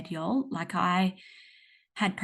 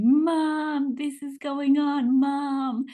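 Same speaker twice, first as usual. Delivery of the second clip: put-on four-year-old daughter; 7 semitones higher, 3 dB louder, much slower than usual. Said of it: "started talking to me".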